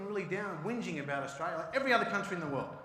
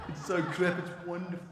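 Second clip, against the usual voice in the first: mock English accent; 4 dB louder than usual. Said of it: "the English, be like".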